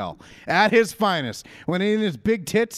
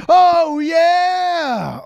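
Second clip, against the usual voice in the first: high, loud raspy wrestler yell; Macho Man "Oh yeah"; 11 semitones higher, 9 dB louder than usual. Retold or imitated. Co-host pitches a slow-motion entrance, booming wrestler yell. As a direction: bellow it like the wrestling legend. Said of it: "And he has".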